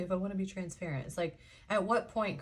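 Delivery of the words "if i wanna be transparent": quick, softer parroting of her own habit; mocking own phrase. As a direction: rattle it off as if teasing yourself. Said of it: "Why do I say".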